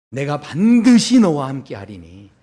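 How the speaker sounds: loud, slow and weighty; firm divine promise. Acted. God assuring Gideon, loud and slow. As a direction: promise it with full force, slowly. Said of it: "이번에는 이렇게 이야기해 주십니다".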